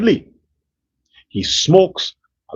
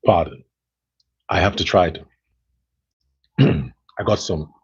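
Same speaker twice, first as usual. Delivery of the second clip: clearing throat; 9 semitones lower, 3 dB quieter than usual. Real, not acted. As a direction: gravelly voice after clearing throat. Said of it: "dust in my throat".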